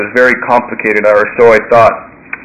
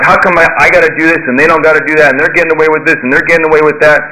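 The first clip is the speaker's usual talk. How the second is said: retold indignant griping, higher pitched; mock whine about unfairness, pitched up; pissed-off complaint; 4 semitones higher than usual. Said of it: "I was pissed one time".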